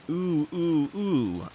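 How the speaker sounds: repeated displeased "ooh"; displeased calling. Acted. Child calling out from the upstairs hallway, displeased repeated oohs. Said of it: "sounding displeased".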